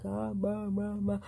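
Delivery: exaggerated lip-moving blah blah; mock over-mouthed babble. To the deaf hairdresser, a mock over-mouthed blah. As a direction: mouth it big and silly, mocking over-enunciation. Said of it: "like that".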